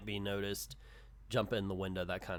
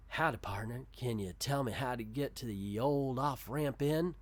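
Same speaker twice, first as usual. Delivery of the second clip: a hint of a cowboy character; lightly voiced cowboy. Stranger asking the shopkeeper for directions, lightly voiced cowboy. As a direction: greet like a comic-strip cowboy.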